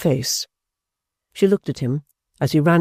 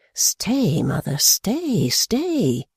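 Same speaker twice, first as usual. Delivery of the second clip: hasty interruption; 6 semitones higher, much slower than usual. A narrator's reading. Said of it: "he interrupted her hastily".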